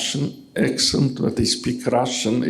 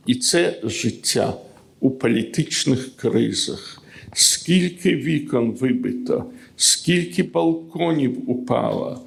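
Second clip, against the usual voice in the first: poetry reading. Acted. Poet reading the Ukrainian original to the audience, solemn recital. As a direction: give each line its weight, pausing between.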